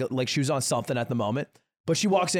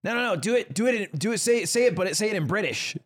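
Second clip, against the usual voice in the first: higher-pitched, imitating a confused woman; mock confused pleading, pitched up; 4 semitones higher than usual. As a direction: insist haltingly, as a baffled customer. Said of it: "looks at him super confused".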